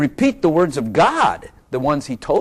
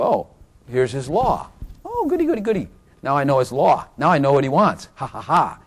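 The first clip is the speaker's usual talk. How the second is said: gleeful mock. Mocking a gleeful law-receiver.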